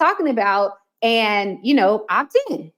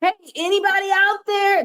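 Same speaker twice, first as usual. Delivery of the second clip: timid call into the void; 9 semitones higher than usual. Retold or imitated. Marketer calling vaguely to everyone in the market. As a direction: call out hesitantly to nobody. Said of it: "that's basically what you're saying".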